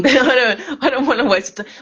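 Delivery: laughing through the words; chuckling while talking. Real, not acted. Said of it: "That's why she's still listening".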